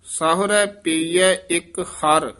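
ਸਾਹੁਰੈ ਪਈਐ ਇੱਕ ਹਰ then a brief halt; short pause after. Shown as a demonstration. Teacher shows the student where to halt, with a short pause. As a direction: chant it and stop briefly after ਹਰ. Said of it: "ਇੱਥੇ ਠਮਕ ਲਾ ਦੇਣੀ ਹੈ".

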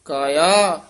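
short halt after ਕਾਇਆ before ਕਾਕ; pause after ਕਾਇਆ. Shown as a demonstration. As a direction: hold briefly on ਕਾਇਆ. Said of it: "ਇੱਥੇ ਯਮਕ ਲਾ ਦੇਣੀ ਹੈ".

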